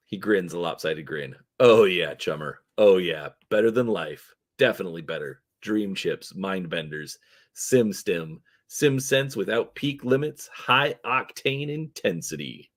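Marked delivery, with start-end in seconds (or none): 1.6-12.7 lightly voiced hustler relishing his wares; a hint of gleeful salesman; twitchy orc dealer. Grinning dealer boasts of wares.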